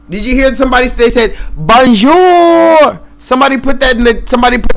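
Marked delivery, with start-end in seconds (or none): 1.6-3.0 loud mock French "Bonjour", pitched up. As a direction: toss off a hammed-up French "Bonjour". Mocking a French greeting.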